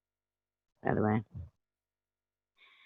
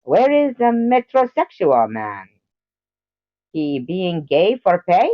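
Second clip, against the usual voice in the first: higher, slow put-on voice; mock character voice; 5 semitones higher than usual. Streamer voicing a character for chat, slow and high. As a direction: drag it out in a silly voice. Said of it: "I'm just kidding".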